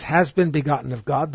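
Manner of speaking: "has been begotten of God" stressed, the word "been" rising; emphasized phrase. Shown as a demonstration. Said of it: "I emphasize".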